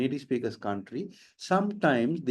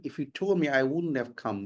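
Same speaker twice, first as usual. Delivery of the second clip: put-on American English accent. Shown as a demonstration. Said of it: "So if you put it in American".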